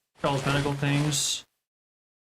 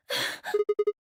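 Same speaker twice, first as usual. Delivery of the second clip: panting. Acted. Reads out panting after struggle.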